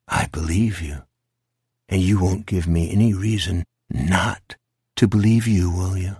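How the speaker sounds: lightly voiced low monster; a hint of low, controlled menace; sinister creature. Creature tests Jack's promise.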